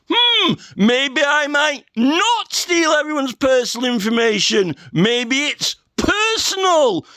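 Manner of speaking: a drawn-out mock daydream of a tech boss; mock pondering Zuckerberg. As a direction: ham up a slow, dreamy self-reflection. Mock Zuckerberg musing aloud.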